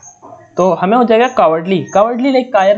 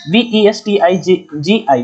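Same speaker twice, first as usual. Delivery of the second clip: letters spelled out slowly, one by one; slow spelling out; slower than usual. Shown as a demonstration. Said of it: "एक word दे रखा है वेस्टिज". (धीरे-धीरे spelling बोलना)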